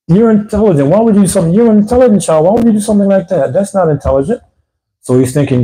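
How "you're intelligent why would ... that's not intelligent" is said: encouraging parent. Retold or imitated. Father gently corrects intelligent son.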